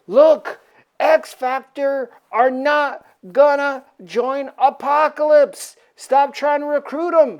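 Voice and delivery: lightly hammed-up heroic refusal; acted defiance. X Factor refusing to join Apocalypse, mock-defiant.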